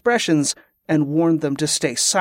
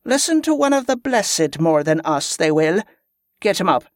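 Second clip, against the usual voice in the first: lightly voiced leader, a touch scornful; scornful commander; 3 semitones higher than usual. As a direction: take charge of the soldiers. Commander orders captive raised.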